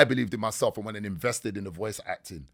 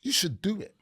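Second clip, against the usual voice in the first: wife; 12 semitones higher, 3 dB quieter than usual. Retold or imitated. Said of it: "She was like".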